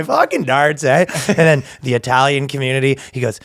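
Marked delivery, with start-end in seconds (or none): 0.0-1.0 light mock Canadian; quick Canadian with a tagged-on "eh"; Canadian accent. Canadian translator taking his turn, light Canadian accent. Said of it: "the Canadian guy".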